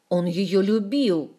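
slow, loud, beside himself; frenzied yell. A narrator's reading. Ohard yells back at Dokers in frenzy: loud yell. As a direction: yell it out like a madman. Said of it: "заорал невменяемый Охард".

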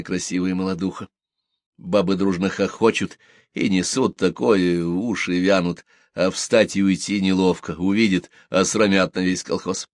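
ordinary delivery

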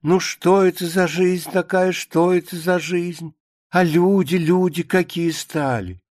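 mildly aggrieved grumbling monologue; a touch of indignant lament; lightly voiced lamenting pious woman. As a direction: bemoan how life has gone, with emphatic stresses.

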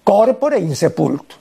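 Corpore said CÓRpore, stress on the first o, slowly. Shown as a demonstration. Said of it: "Corpore con tilde en la primera O".

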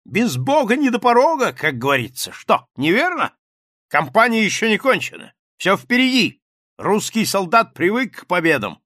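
high, loud bluff exclamation; exclaiming captain. A narrator's reading. Captain exclaims to the journalists, loud and high. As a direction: blurt it out like a brash officer. Rybnikov's boastful patriotic speech.

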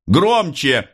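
high sharp "Громче!"; officer's command. A narrator's reading. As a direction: demand she speak up. Officer demands louder.

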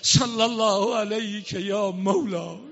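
slow spoken call of «صلی الله علیک یا مولا»; spoken salutation. Acted. Preacher greets the martyred Imam, slow spoken call. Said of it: "chanted again after".

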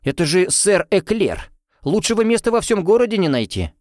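can't believe her ears; astonished. A narrator's reading. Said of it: "крайняя степень изумления".

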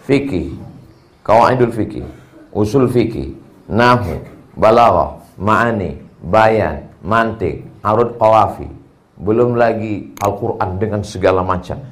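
low, evenly measured roll-call; list recitation. Shown as a demonstration. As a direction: tick off each subject on the same low note. Reels off long list of subjects.

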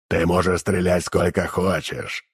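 low, slow booming demon drone; booming mumble. Acted. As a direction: boom it out like a muffled demon. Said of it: "гулко забубнил Лупырь".

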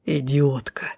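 low, voiceless angry whisper; spiteful hiss. A narrator's reading. Unseen captor insults the pinned woman, spiteful hissing whisper. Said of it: "в злобном шипении голос опознать оказалось проблематично".

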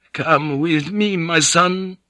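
put-on a frail old Spanish monk calling gently. Old monk beckoning Blackthorne.

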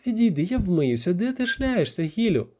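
high, nagging reproach; irritated scolding. Acted. Віра asking where he has been, irritated.

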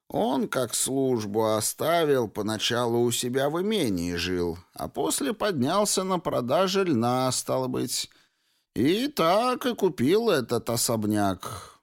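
a hint of a chatty elderly clerk; very old man. Old clerk telling about a neighbour.

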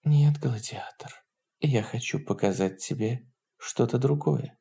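soft, intimate whisper; hushed murmur of gentle refusal. A narrator's reading. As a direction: whisper it to someone very close. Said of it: "прошептала".

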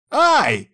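sharp high ouch; yelp of pain. A narrator's reading. Yuchi kicked in the leg, yelp of pain. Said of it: "воскликнул Ючи".

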